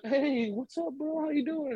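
high, light casual greeting; playing it cool. Fan greeting his favorite player, casually high-pitched. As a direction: greet your idol in a high, easy voice. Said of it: "I was just like".

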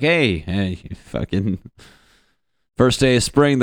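loud, excited calling out; excited announcement. Retold or imitated. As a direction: announce it like big news. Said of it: "They're like".

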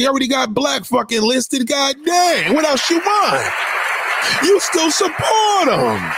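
furious shouting. Real, not acted. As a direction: yell it at them in real anger. Angry rant at listeners.

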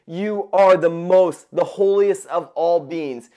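MOST hit slow and loud; emphatic praise. Acted. Angels' praise voiced emphatically by preacher.

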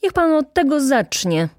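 loud, high exasperated retort; sudden indignant explosion; angry outburst. A narrator's reading. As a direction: burst out at the slacker. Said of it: "wybuchnął Rzecki".

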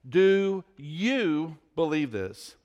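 slow, with "you" leaned on; stress on you. Shown as a demonstration. Pastor demonstrating Jesus' question, stress on you. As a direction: make the question personal through you. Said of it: "put the inflection on the "you".

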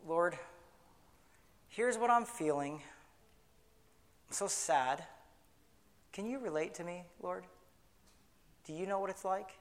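soft, intimate prayer to the Lord; hushed, confiding prayer. Shown as a demonstration. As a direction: pray it softly, from the heart. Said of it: "you pray like this".

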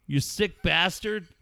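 lightly outraged telling-off; mock disgust. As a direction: draw out the playful scolding. Mock accusing the co-host.

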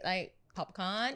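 put-on slow valley girl drawl on Popcorn. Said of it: "Stop with the tongue".

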